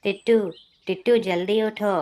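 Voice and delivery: urgent shout; urgent call. Acted. Waking him urgently at dawn.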